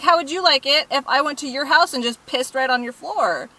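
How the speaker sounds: heated rhetorical questioning, retold; retold angry challenge. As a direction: re-enact confronting the culprit, pitch up.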